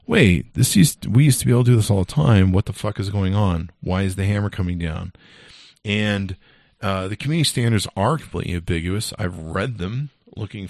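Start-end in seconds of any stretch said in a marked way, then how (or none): 0.1-5.1 baffled and fed up, demanding answers; exasperated outburst. Retold or imitated. Venting about the Facebook crackdown, exasperated and raised. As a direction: voice jumps up and louder, stretching out the start, then rushing the rest. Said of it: "it's been like".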